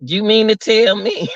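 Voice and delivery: a touch of real disbelief at the story; incredulous. Real, not acted. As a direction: throw it back in disbelief. Repeats in disbelief.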